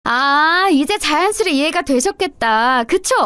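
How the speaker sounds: smug, teasing tone, rising at the end; gloating taunt. Acted. Sister-in-law gloating at mother-in-law after laughing at her, smug. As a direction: rub it in with a sing-song taunt. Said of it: "비웃음을 늘어놓고 나서 신나게 웃고".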